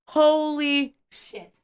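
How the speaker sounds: slow, drawn-out stunned exclamation; disbelief. Real, not acted. Vlogger reacting to the story, drawn-out disbelief. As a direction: let the shock sink in.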